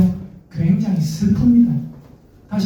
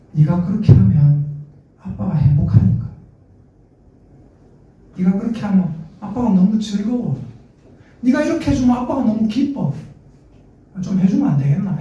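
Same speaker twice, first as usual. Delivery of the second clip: gentle persuasion. Retold or imitated. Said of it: "진지하게 얘기할 때는".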